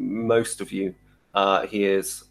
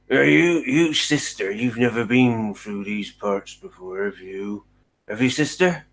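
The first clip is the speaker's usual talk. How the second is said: put-on a grumbling, sulky old coachman prodding the priestess; lightly voiced grouch, nosy and suspicious; grumpy coachman. Coachman quizzes the priestess about the road, grumbling.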